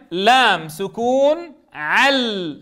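slow, stretched spelling of لام سكون عل. Shown as a demonstration. Teacher spelling the word for the students. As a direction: drag out each spelled sound. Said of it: "شو صارت الكلمة؟".

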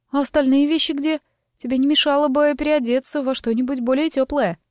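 a lively gossip, light and quick; chatty young woman. Acted. Narrator voices chatty Lima.

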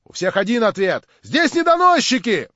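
loud, high indignant protests; voices calling out. A narrator's reading. The gathering rejects the question, in loud indignant cries. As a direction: throw out objections from around the room. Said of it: "послышались опять голоса".

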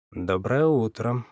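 slow, cold good morning; unfriendly. Acted. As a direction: drop it coldly, no warmth. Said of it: "проронил я совсем недобро".

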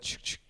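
quiet imitated shotgun pump; gun cocking. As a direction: softly mouth a gun cocking. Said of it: "You know what that is?".

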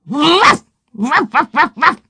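high, loud, sharp woofs; sudden bursts of barking; barking dog. A narrator's reading. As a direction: bark like a big hound. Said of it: "и залаяла".

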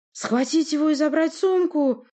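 high, loud, drawn-out order; shouted command. A narrator's reading. Sorceress orders her guards to seize the newcomer, shouted command. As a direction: call it out as an order to seize someone. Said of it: "приказала Власта".

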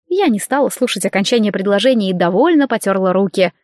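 plain reading voice

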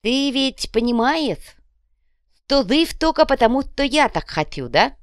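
high, slow, drawn-out character voice; one-eyed boss. A narrator's reading. Кувалда questions his flushed underling, a high drawling boss. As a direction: remind your underling who decides. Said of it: "после чего осведомился".

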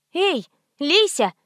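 slow, high pleading call to the shower; coaxing call. A narrator's reading. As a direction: coax the water out, drawn out. Shaking the dry shower head.

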